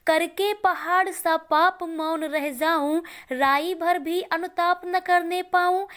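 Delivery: slow, sustained verse reading; poem recitation. Acted. Teacher reciting Kaikeyi's verse of remorse, slow recitation. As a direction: stretch out the line endings in recitation.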